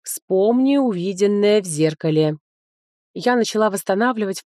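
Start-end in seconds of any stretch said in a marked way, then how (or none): 0.0-2.4 put-on slow creaky old book voice; raspy voice. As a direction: rasp it out slowly, like an old book. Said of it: "скрипучим голосом сказала".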